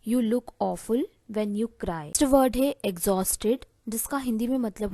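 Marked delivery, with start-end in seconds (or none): 0.1-2.0 very slow and deliberate, word by word; slow dictation. Shown as a demonstration. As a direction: dictate the phrase slowly to the class. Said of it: "तो आप इसे English में बोलेंगे".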